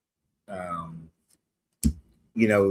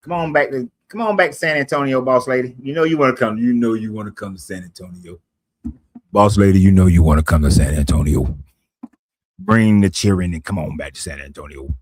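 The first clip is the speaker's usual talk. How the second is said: coaxing call-out; 7 dB louder than usual. Real, not acted. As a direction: call the boss lady back home, loudly. Coaxing boss lady back to San Antonio.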